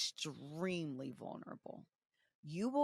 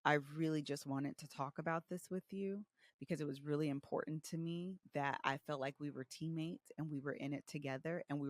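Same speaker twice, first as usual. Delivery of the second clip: lightly softened, quieter plea; a touch of tender honesty; redoing the fight with softer emotions; 2 semitones lower, 6 dB quieter than usual. Retold or imitated. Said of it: "this energy turns into".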